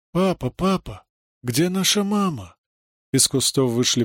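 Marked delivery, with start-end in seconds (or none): 0.1-2.6 put-on small child calling for mommy, higher; a lost little kid asking for mama; высокий детский голос; child's voice. A narrator's reading.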